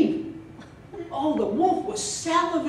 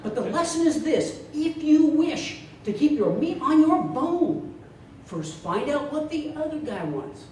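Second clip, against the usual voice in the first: a touch of a stage speaker wrapping up; motivational speaker. Acted. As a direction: preach the moral like a paid speaker. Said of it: "here's how he concludes his talk".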